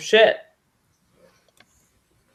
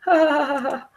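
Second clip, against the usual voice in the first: short laugh trailing off softer; 2 semitones higher, 3 dB quieter, faster than usual. Real, not acted. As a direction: laugh it off, fading away. Player laughs at own bad scores.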